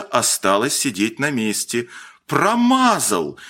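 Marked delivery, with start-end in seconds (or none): 2.3-3.4 high, drawn-out gleeful call; joyful cry. A narrator's reading. Boys cheering the grey-haired shooter's miss, joyful cry. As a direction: crow it slowly with glee. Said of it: "радостно крикнули ребята".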